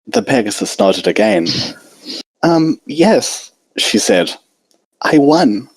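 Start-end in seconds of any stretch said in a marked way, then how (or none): 2.4-5.7 shy, hesitant little pony voice, lightly pitched up; timid Fluttershy. A narrator's reading. Fluttershy admits winning.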